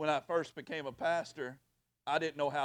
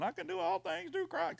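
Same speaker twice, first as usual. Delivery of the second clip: mock mumbling. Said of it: "I hear some of y'all just mumbling".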